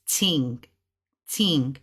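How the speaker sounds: "ting" said low and falling; Mandarin word. Shown as a demonstration. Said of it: "Well, in Mandarin, it's".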